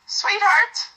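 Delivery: a lifted, tender cry of sweetheart; tender and sincere. A narrator's reading. To her clingy companion, a tender, sincere sweetheart. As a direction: say it sincerely, with fond surprise. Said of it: "her tone becoming tender and sincere".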